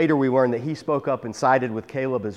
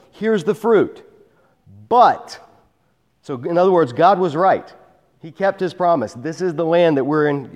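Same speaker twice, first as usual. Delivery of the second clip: raised, louder reading of the spies' words; scripture reading; 3 dB louder than usual. Acted. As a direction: read the report out with conviction. Reading the spies' report aloud.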